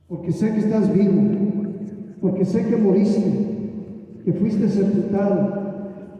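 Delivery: earnest prayer, leading the room; fervent prayer. Acted. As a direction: pray aloud with conviction. Leads congregation in prayer.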